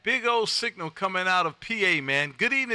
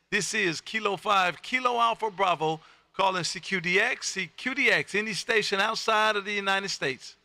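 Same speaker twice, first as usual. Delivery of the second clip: steady, rhythmic call-sign read over the air; radio CQ call. Acted. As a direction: call out to any station in a practiced operator cadence. Radio CQ calling routine.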